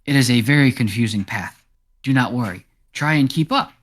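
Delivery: lightly voiced cat character guiding travelers; friendly cat. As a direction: play a helpful, slightly theatrical cat. Game master plays talking cat.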